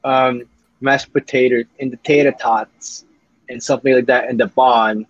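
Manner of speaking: slow, halting fake Texan with a British slip; attempted Texas accent. Shown as a demonstration. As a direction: East Londoner trying to be Texan. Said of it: "I can do a Texas accent".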